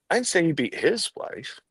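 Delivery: "his" pushed up high; single out the word "his"; stress on HIS. Shown as a demonstration. Trainer showing how emphasis changes meaning, stress on "his". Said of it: "when I emphasize different words".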